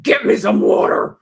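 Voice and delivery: whispered curt command; hissed order. Retold or imitated. Woman orders her husband to fetch water, in a tense whisper. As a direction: whisper it through restraint. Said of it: "looked at him and said".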